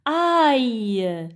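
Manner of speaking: AÏE drawn out, falling into Y; sound demonstration. Shown as a demonstration. Teacher presents today's sound to children, drawn out. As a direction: hold the A of AÏE, then glide down. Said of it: "c'est le son aïe".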